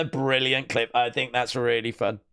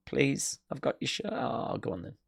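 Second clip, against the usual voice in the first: mock pleading; 7 dB quieter than usual. Kid's pleading voiced quietly.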